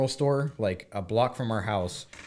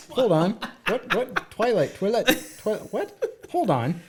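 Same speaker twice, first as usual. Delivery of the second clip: higher, laughing, what?; laughing disbelief; 9 semitones higher than usual. Retold or imitated. Man retelling his shock at the Twilight books, laughing.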